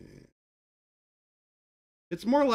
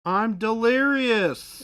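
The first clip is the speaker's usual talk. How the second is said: delirious outburst; 10 semitones higher, 10 dB louder, much slower than usual. Acted. Playful exaggerated outburst.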